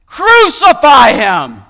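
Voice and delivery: full-force, high, drawn-out shout; crowd's cry. A narrator's reading. Crowd cries out to Pilate for crucifixion, a loud drawn-out shout. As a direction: cry it out slowly like an angry mob. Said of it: "they cried out again".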